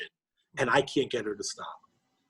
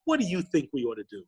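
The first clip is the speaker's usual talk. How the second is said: high, patronizing gush easing down; condescending parent; 4 semitones higher than usual. Acted. Father humouring his eleven-year-old's idea, condescending. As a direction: humour a child with exaggerated sweetness. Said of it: "in the condescending way a parent does".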